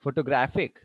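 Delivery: photoGRAPHic, third syllable stressed; stress on graph. Shown as a demonstration. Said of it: "the stress is now on the graph".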